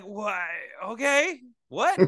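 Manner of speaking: a confused viewer reacting to an abrupt plot turn; baffled viewer. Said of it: "You'd be like".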